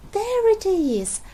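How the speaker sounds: loud, high, slow shout. Acted. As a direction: shout out as the lizard appears. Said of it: "shouted Daddy Pig".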